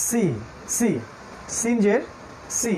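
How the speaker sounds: "সি" with a long hissing s; snake-like s. Shown as a demonstration. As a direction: hiss "সি" like a snake. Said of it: "একটা সাপের মতো". (সাপের মতো হিস করে "সি")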